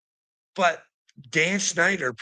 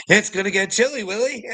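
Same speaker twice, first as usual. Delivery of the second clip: 1 teasing threat; 8 semitones higher, 4 dB louder than usual. Real, not acted. Sing-song threat to commenter.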